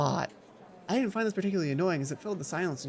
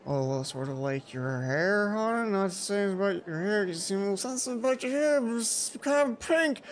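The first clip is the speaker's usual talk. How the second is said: teasing Mai. Acted. Mai teasing about hair.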